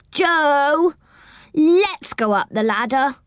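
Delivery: high-pitched wheedling plea; begging. A narrator's reading. Girl begs the older boy to climb, pleading. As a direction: beg and draw out the name. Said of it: "begged Franny".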